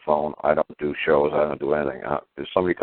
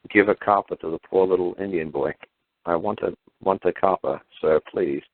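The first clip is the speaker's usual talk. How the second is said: mock Indian beggar boy; 3 semitones higher than usual. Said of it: "You know".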